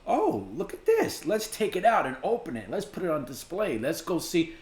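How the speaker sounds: lightly mimicked curiosity, starting high; mock eager finder. Reactor mocking people who dig up buried things, mock eagerness. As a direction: parody someone thrilled by their find.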